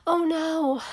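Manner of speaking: sudden high oh no at a spill; dismayed oh no. Acted. Girl spilling gravy at dinner, startled. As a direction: gasp it out, caught off guard.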